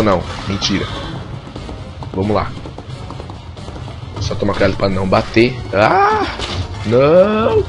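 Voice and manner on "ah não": sudden high yelp of dismay; startled cry. Real, not acted. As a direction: cry out as the crash hits. Car crash in the game.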